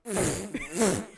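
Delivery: long blown raspberry; comic sputtering fart effect; imitated fart noise. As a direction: blow a drawn-out mock fart with the lips. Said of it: "a five-second long fart".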